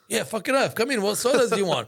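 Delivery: put-on high, hearty call to the kids; eager retold offer. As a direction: imitate yourself generously waving them in.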